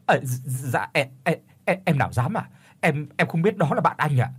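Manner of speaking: frightened stutter, repeating words; stammering. Acted. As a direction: stumble over the words in fear. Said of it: "Gã đáp lắp bắp".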